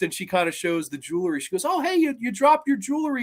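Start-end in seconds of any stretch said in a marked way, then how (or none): 1.6-3.2 Tomie voice. Retold or imitated. Voicing Tomie showing jewelry.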